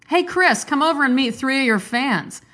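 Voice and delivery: high call across the room. Acted. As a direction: call him over, bright and high. Waiter calls across the restaurant.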